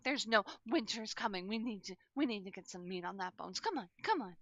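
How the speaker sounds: high doting baker pushing food; grandma voice. Acted. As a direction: coax them to eat, grandmotherly. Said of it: "She's like".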